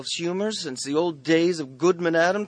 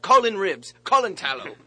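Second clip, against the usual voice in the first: put-on town drunk; 4 semitones higher, 6 dB louder than usual. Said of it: "says the drunkard".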